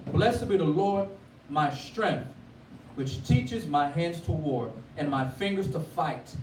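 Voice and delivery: measured scripture reading, a touch of preaching lift. Acted. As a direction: read the psalm with solemn lift. Reads the Psalm aloud.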